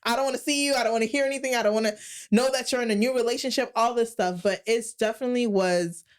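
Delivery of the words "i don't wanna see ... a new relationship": high, fast, exasperated rant at her ex; telling the ex-boyfriend off, fed up and exasperated. Retold or imitated. To her ex-boyfriend she won't see again, high, exasperated outburst. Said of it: "And I'm like".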